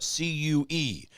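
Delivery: C U E spelled letter by letter; C U E, each letter said clearly. Shown as a demonstration. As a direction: spell out C U E so it's not the kook Q. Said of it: "not the kook Q".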